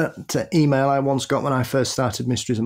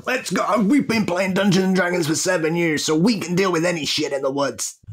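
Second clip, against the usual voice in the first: hyped-up monster hunter; 5 semitones higher than usual. Retold or imitated. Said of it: "two guys who just drunk up too much energy drink".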